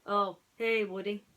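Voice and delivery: sad. Acted. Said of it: "the piggy bank said, sadly".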